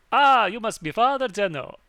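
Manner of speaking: loud, high-pitched hearty character greeting. Acted. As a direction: boom out a hammed-up greeting. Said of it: "do you wanna take over Lawrence".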